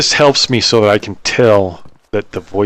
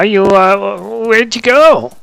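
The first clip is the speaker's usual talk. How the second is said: high-pitched morphed voice; squirrel voice; 12 semitones higher, 3 dB louder, much slower than usual. Acted. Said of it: "talk in this squirrel voice".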